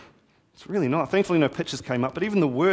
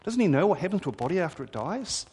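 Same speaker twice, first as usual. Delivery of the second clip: shocked murmuring crowd; 6 semitones higher, faster than usual. Retold or imitated. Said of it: "the crowd's kind of shocked murmurings".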